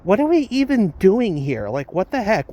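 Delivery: incredulous, mildly exasperated outburst; flabbergasted. Retold or imitated. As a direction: react as if you can't believe it. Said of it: "I was, like, flabbergasted".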